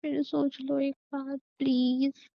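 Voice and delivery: slow, drawn-out pleading; last plea. Acted. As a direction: plead slowly, lingering on please.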